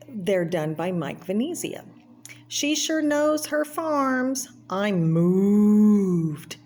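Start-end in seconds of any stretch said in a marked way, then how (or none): 2.5-6.6 high, slow, then a loud gush; a put-on cartoon admirer, touched; cartoon character voice. Cartoon character admiring the painting, in a high put-on voice. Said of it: "the cartoons in this are".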